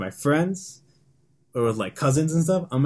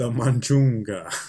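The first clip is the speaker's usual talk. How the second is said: dramatic announcer; slower than usual. Pretend. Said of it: "you said that pretty good".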